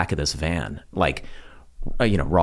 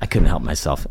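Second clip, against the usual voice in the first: corny dad laugh; 6 semitones lower than usual. Real, not acted. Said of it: "That's such a dad joke".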